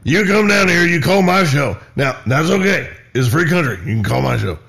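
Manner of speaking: lightly voiced folksy radio host, building up; character radio host. Radio host character answering an angry caller, mock scolding. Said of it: "give that character a name".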